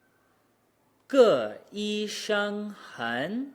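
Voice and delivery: falling "个", high level "医生", dipping "很"; slow "个医生很", resetting between tones; tone reset. Shown as a demonstration. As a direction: drop on "个", hold "医生" high, dip on "很". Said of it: "Both of these require a reset".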